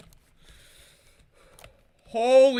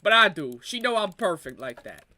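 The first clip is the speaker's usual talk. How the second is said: mock Italian accent slipping off target; botched Italian accent; 3 semitones lower than usual. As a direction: attempt an Italian accent and miss. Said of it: "That sounded more black than Italian".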